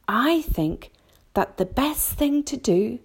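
tentative, pondering, left hanging; said slowly. A narrator's reading. James begins his own suggestion, slowly and thoughtfully. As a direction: feel the way towards an idea. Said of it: "James said slowly".

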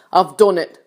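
mild shout of triumph; triumphant shout. A narrator's reading. Centipede through the ceiling hole, triumphant call. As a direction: announce it with a touch of triumph.

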